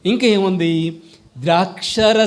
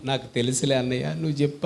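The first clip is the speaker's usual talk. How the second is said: mock know-it-all; 3 semitones lower, 7 dB quieter, faster than usual. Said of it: "అన్నట్టుగా ఉంది".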